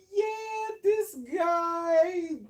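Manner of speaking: high, exaggerated incredulous voice; mock disbelief. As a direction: ham up the shock. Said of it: "I was just like".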